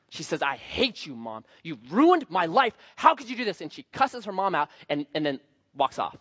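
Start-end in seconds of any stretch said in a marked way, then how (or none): 0.4-3.6 a retold tantrum, rising to a mild yell; mock angry yell. Spoiled Audrey yelling at mom over the car, mock angry. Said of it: "She screams, not with joy, but anger".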